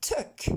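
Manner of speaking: "Took" with a short French eu-like vowel; pronunciation model. Shown as a demonstration. Teacher drilling the English sound for French learners, pronunciation model. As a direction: say "Took" crisply with a lax vowel, no ou. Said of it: "on s'entraîne avec ce son".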